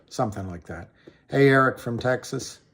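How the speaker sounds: usual speaking voice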